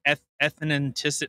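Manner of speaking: "Eth-, ethnicity" stumbled over like the botched take; mocking mispronunciation. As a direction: imitate the mangled "ethnicity". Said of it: "I heard it twice".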